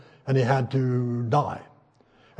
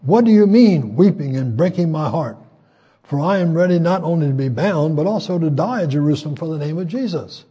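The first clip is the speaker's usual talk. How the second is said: raised, impassioned reply; Paul's passionate answer; 5 dB louder than usual. Retold or imitated. Paul answers his weeping friends, raised and passionate. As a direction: answer them with fervor. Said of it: "And Paul answered".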